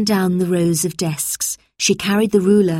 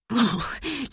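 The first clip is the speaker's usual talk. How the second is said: soft shivering "ooh"; small, higher-pitched shivery breath; 5 semitones higher, 7 dB quieter than usual. A narrator's reading. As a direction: shudder at the cold and dark. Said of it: "Lucy shivered".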